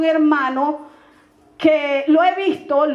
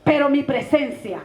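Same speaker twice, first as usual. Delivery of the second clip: solemn prophecy. Retold or imitated. Praying woman gives the pastora God's message, solemn and deliberate. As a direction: pronounce each command deliberately, with long pauses.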